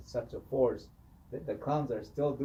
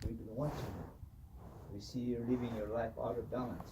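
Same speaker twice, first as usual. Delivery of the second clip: owl kachina warning; 5 dB quieter than usual. Retold or imitated. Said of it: "he goes".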